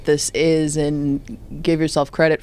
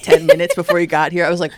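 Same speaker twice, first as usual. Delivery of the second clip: ordinary talk, nothing marked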